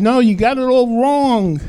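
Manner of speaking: loud, high acted rebuke; imitated forceful objection; emphatic correction. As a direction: raise the voice to overrule them. Acted rebuke in Jesus' words.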